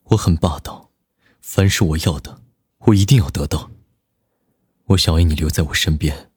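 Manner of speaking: low, steady domineering male voice; lightly voiced controlling lover; cold possessive boss. A narrator's reading. Nan Lichuan's long confession.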